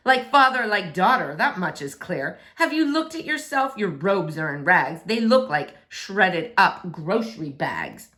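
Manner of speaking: lightly voiced scornful prince; mock her outfit with disdain; snooty insulting prince. Prince mocks the king.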